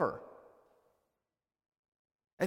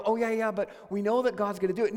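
breezy dismissive; 3 dB louder, faster than usual. Retold or imitated. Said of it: "This is not a story of".

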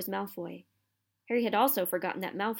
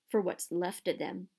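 nasty. Acted. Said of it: "he added nastily".

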